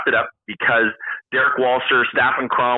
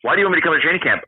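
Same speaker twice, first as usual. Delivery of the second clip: quick, higher-pitched questioning pushback; mock-puzzled question, fast and raised; retold challenge; 5 semitones higher, much faster than usual. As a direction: rattle it off as a puzzled objection. Retold pushback on camp invite.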